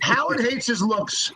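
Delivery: breathy giggle under the words; real laugh-whisper at Howard's vanity. Real, not acted.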